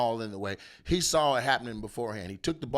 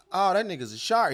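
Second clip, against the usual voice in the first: startled yell, pitched up and loud; panicked shout; 6 semitones higher, 5 dB louder than usual. Retold or imitated. Beachgoer realising a shark tapped him, panicked shout. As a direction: shout it the moment you realise. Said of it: "And you like".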